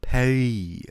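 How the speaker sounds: Paris said the French way, no S at the end; mock French Paris, "Pa-ree". Shown as a demonstration. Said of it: "should I say".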